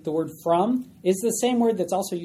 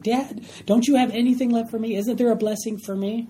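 higher-pitched, mildly desperate plea; desperate pleading; 5 semitones higher than usual. Acted. Esau begging his father for a blessing, desperate. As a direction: plead like a son left out. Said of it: "he sounds so desperate there".

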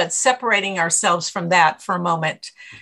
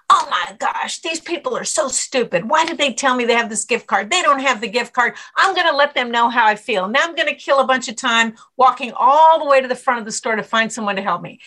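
mild mock irritation, quicker pace; retold angry rant; 2 semitones higher, faster than usual. Retelling herself fuming in the grocery store, mock irritated rant. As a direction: replay your grumbling inner voice, a touch exasperated. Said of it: "I start getting really angry".

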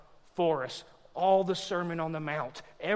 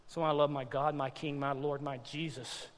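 quiet, lowered, reverent confession; tender devotion; 3 semitones lower, 5 dB quieter than usual. Real, not acted. Preacher professing love for Jesus, tender devotion. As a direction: let it sink softly to a hush on the last name.

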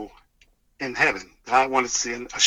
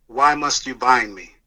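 lightly imitated demon voice, a bit louder; demon voice, retold; 5 dB louder than usual. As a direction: retell the possessing spirit's measured question with some force. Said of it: "the voice coming out of the boy".

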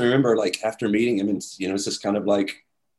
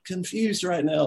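slow dazed wonder; 9 semitones higher, slower than usual. Retold or imitated. Dazed after meeting Paul.

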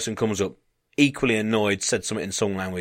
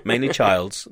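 put-on Dutch accent; slower than usual. Dutch desk worker on the lost-people point, mock Dutch accent. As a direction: imitate Dutch English, amused and drawn out. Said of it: "she's, uh, she's Dutch".

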